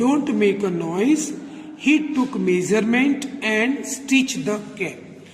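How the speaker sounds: slow, deliberate word-by-word read-aloud; measured teacher reading an English story. A narrator's reading. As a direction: read each phrase slowly with pauses for young learners. Reads English story text to learners.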